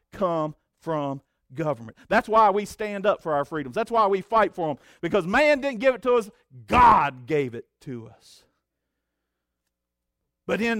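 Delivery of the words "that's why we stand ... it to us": fervent preaching. Acted. Pastor rallying the church about freedom, shouting. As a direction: shout the last line from the pulpit.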